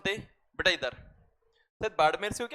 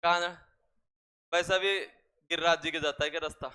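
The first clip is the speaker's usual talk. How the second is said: eastern Rajasthani rough talk. Retold or imitated. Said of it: "प्यार से भी बोलेगा तो ऐसे लगेगा लठ मारेगा ये".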